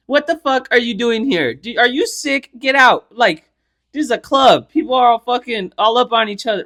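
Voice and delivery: mock outrage at a stranger; indignant retort. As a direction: play up the incredulous indignation. Acted telling-off in the club.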